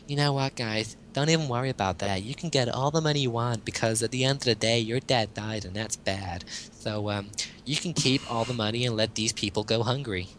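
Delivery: a hint of a camp, cheerful salesman. Host voicing capitalism in a light camp voice to reassure rich heirs. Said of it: "I can't really say that in a gay voice".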